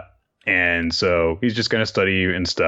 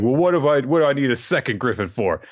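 flustered Damien; 6 semitones higher, faster than usual. Retold or imitated. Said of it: "he's like".

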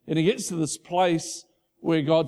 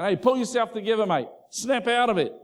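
mock yell; 6 semitones higher than usual. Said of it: "He's not yelling at you saying".

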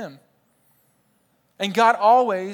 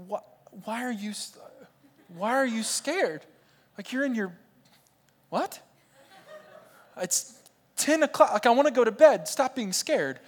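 exasperated parents; 5 semitones higher than usual. Retold or imitated. Parents exasperated at crying child.

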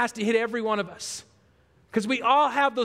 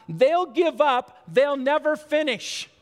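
smug taunt; 3 semitones higher, 3 dB louder, slower than usual. Retold or imitated. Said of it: "They thought".

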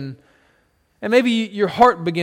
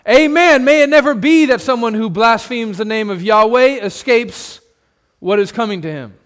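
loud, higher shouted agreement; crowd crying amen; 4 semitones higher, 6 dB louder than usual. Acted. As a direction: roar your agreement. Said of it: "cries out in agreement".

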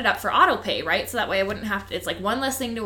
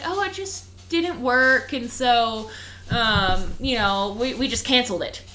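pitched-up, slowed, airy brush-off; mock customer service voice; 3 semitones higher, slower than usual. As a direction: parody the rep's breezy excuse. Mocking the company's excuse.

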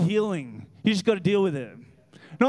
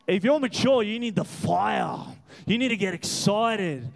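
rising into a shout on fire; preaching shout. Real, not acted. Preacher urging mature believers, full shout.

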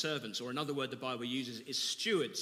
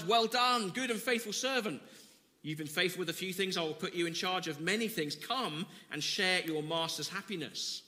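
praising master; 4 semitones higher, 3 dB louder than usual. Acted. Master praises faithful servant.

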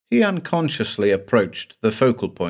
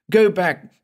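high, louder desperate plea; 10 semitones higher, 4 dB louder than usual. Acted. Terrified passenger begging the doctor to turn back, louder. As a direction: push the second go back harder, higher. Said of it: "Then he began to plead".

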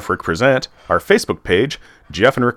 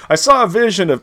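dreamy quoted voice; 8 semitones higher than usual. Retold or imitated. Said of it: "He's like".

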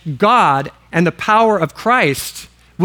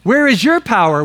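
raised pitch, YOU hit hard; emphatic demon challenge; 6 semitones higher, 3 dB louder than usual. Acted. Demon challenging would-be exorcists, emphatic and indignant. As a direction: confront them, punching the key words high. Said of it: "It's even more emphatic".

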